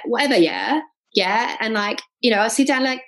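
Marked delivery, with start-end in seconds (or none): 0.1-1.6 questioning yeah tag in a mocked English accent; lazy teasing English accent with rising yeahs; English accent sent up, yeah rising. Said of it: "the accents would just do my head in".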